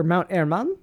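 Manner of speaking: "Mount Hermon" with a Spanish accent, silent h and rolled r, ending on a rising question. Shown as a demonstration. Host second-guesses the name in a Spanish accent. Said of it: "why say it in a Spanish accent".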